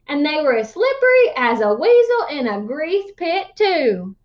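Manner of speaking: lively storyteller voice reading a tall tale; animated read-aloud narration; story narration. A narrator's reading. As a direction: spin the yarn to the class.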